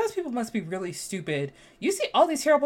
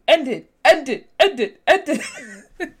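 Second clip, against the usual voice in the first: mock pleading; 4 semitones higher, 8 dB louder, slower than usual. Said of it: "I was like".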